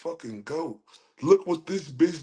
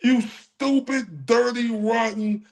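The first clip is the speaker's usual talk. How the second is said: slow, higher, deliberate insults; angry insults; 4 semitones higher than usual. Real, not acted. Cursing out the blonde woman who accused him, angry. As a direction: spit each insult out slowly.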